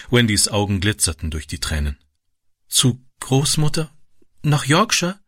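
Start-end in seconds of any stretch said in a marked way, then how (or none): 2.7-5.2 higher, slow, joyful disbelief; light up through tears; delighted. A narrator's reading. Girl delighted at going to grandmother, higher. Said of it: "wiederholte sie erfreut".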